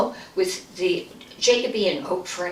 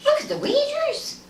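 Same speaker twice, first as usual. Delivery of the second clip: much higher, urgent and tense; spooked son. Retold or imitated. Ted showing his mother the waders, high spooked urgency. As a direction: point it out in alarm.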